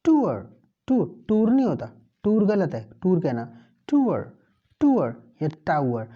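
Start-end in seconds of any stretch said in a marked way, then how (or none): 0.0-0.5 "टूअर" with a gliding uh ending, r barely there; British "tour". Shown as a demonstration. Teacher demonstrates the British pronunciation of tour. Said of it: "मैं आर को आराम से पढ़ा हूँ". 3.9-4.3 "टूअर" with a gliding uh ending, r barely there; British "tour". Shown as a demonstration. Teacher demonstrates the British pronunciation of tour. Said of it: "मैं आर को आराम से पढ़ा हूँ".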